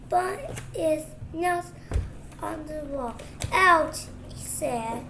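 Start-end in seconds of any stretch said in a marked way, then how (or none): 3.5-4.1 pained ouch. Acted. Tom bumps his nose.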